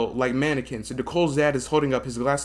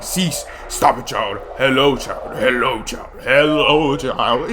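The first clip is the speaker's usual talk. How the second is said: put-on old woman whispering; 5 dB louder, slower than usual. Monster repeats greeting.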